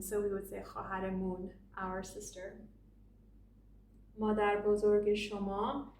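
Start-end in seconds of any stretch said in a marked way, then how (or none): 0.0-1.5 khahar mun said with an oo sound, mun not man; spoken Persian vowel. Shown as a demonstration. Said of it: "an becomes un".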